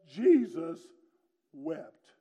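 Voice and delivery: Jesus firm, wept fading almost to nothing; hushed solemn reading. Shown as a demonstration. Preacher reading the verse in its context, hushed and solemn. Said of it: "it says".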